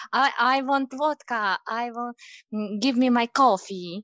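put-on comically thick Russian accent; exaggerated Russian accent. Wife mocking back at her husband, exaggerated Russian accent. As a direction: ham up the Russian demands a little. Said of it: "I try to exaggerate it for a co-, more comic effect".

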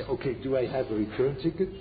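hopeful question rising at the end; rising, questioning tone on ticket; imagined listener's question. Retold or imitated. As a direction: ask it like a student wanting reassurance. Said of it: "Now you say".

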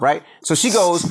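usual speaking voice

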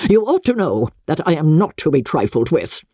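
mildly angry, haughty reproof; understated anger, clipped and proud. Acted. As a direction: scold her coldly from above. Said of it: "in an angry tone".

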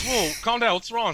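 high, loud imitation of the startled officer; cop calming. Cop tells the yelling driver to calm down, high and loud. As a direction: play the cop telling him to calm down. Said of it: "He goes".

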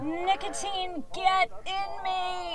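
soft, slow, savoring murmur; a quiet moan of craving relief; slow hushed craving. Acted. Savoring first drag.

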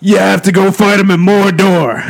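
Macho Man voice. Acted. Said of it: "you better do the fucking voice".

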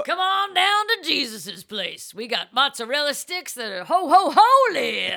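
playful commercial host; cheesy ad voice. Acted. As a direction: sell the pun like a TV ad. Mock Jesus restaurant ad.

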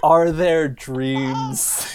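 very slow, stretched-out mock profundity; grandiose Frankie. Frankie answering Dee Dee at the end, very slow mock-grand. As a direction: lingers over each word like a grand finale. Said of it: "he grabs Dee Dee by the face and he goes".

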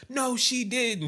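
high, slow, incredulous no she didn't; mock disbelief. Retelling Leah's reaction, high and slow disbelief. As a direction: draw out the disbelief. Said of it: "And Leah's like".

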